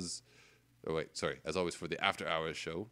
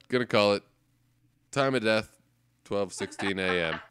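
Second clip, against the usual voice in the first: mock doctor call; 7 dB louder than usual. Mock doctor calling time of death.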